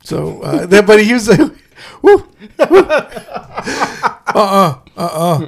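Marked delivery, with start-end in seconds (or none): 2.0-2.8 imitated wrestler whoop; short mock "woo" whoops; Ric Flair whoop. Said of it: "That's fucking Ric Flair".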